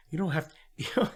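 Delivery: lightly acted mind-blown disbelief. Jerry answers his therapist, mind blown. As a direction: repeat it as a stunned question, breaking it up. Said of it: "it just is blowing his mind".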